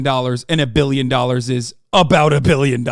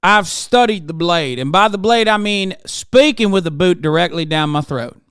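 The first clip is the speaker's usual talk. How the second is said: grovel like a boot-licking senator; groveling senator parody; 4 semitones higher than usual. Retold or imitated.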